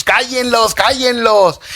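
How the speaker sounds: high insistent repeated command; demanding religious leaders. Retold or imitated. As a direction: imitate the leaders ordering silence, pitched high. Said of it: "Los religiosos".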